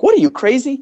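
high, disbelieving cry of what, are you crazy; incredulous wife. Retold or imitated. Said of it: "she was like".

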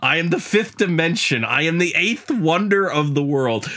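boastful wrestler cutting a promo; wrestling promo. Acted. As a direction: brag it like a pro wrestler on the mic. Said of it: "Jeff could deliver a hell of a wrestling promo".

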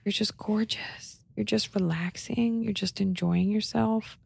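slow, soft whisper to dog. Retold or imitated. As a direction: whisper sweetly, slowly. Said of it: "where I just whisper".

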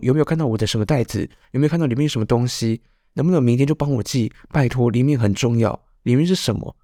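rapid-fire imitation of urgent nagging; 模仿夸张催促. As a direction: fire off questions as if it were vital. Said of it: "但他就是会讲得很严重". (学妈妈连环追问，语速急促)

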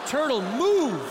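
high, slow caveman grunting "Ocean big"; caveman speech. Pretend. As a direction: talk like a dumb caveman, words chopped to basics. Caveman-speak mock reasoning.

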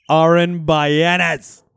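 "Aaron Bayanes" very slow and loud, with Spanish vowels; proud Spanish pronunciation of "Aaron Bayanes"; rolled Spanish name. Shown as a demonstration. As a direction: stretch out "Aaron Bayanes" grandly, Spanish style. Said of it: "I am Australian and Spanish".

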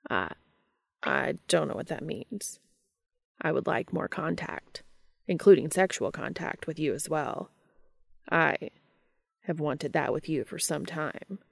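careful halting confession; reserved angel voice. Acted.

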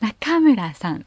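slow 中村さん rising on か, toned down; a gentler lift on 中村; rising Kyushu intonation. Shown as a demonstration. Childhood name call, milder rising 中村さん. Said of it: "みたいな感じで".

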